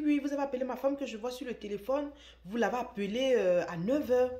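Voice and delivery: hammed-up jealous husband yelling down the phone; imitating angry husband. Jealous husband accuses the brother on the phone, loud angry shout. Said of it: "Et il commence à crier".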